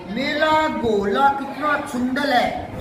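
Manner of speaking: slow, lightly voiced little child lisping; a teacher's gentle mimic of a toddler, slowly; teacher slowly mimics Chunnu's toddler lisp. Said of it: "बच्चे ऐसे ही बोलते हैं, तुतला कर".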